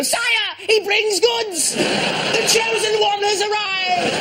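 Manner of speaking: grand herald voice. Pretend. Donor imagining a herald hailing his clothes donation, high and slow. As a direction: announce the donor like royalty arriving. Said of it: "wants to go".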